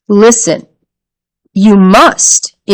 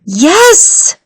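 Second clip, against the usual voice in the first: mother's curt yes; 10 semitones higher than usual. A narrator's reading. Mother voiced.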